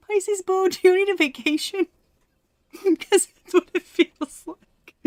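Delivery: high, loud playful call-out; excited teasing. Real, not acted. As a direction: tease the Pisces with bright high energy. Teasing Pisces viewers excitedly.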